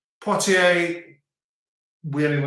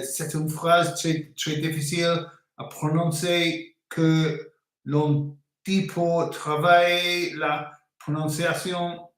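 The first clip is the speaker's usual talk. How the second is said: slow diction exercise; slower than usual. Shown as a demonstration. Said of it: "these are diction exercises".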